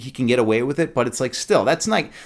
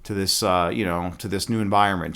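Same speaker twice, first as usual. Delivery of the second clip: put-on understated sheepish girl; meek excuse; 5 semitones lower than usual. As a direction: mumble a lame excuse. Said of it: "She's like".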